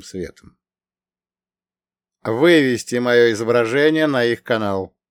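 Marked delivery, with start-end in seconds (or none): 2.2-5.0 curt order. Acted. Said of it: "коротко приказал он".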